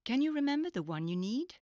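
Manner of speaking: upbeat teacher check; energetic prompt. Shown as a demonstration. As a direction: pop the question to the learner. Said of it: "teacher's prompt".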